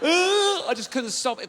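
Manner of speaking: high, slow half-sob; struggling to get words out; laughing through tears. Retold or imitated. Man recalling crying on Zoom, laughing helplessly.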